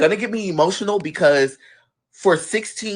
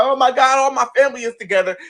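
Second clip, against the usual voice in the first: mock crying cousin; 5 semitones higher, faster than usual. Cousin overjoyed at family reunion, mock crying. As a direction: gush it like an overwhelmed relative. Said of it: "My cousin over here crying".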